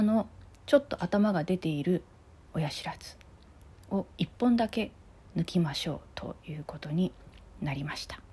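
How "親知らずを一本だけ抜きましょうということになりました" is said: numb mouth after extraction; talking through a numb jaw; after wisdom teeth. Real, not acted. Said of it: "麻酔が 切れてきて".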